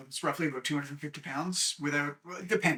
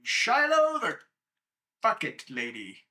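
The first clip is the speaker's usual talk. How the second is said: Cletus voice. Acted. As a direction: play the flustered shopkeeper greeting her. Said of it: "Cletus is like".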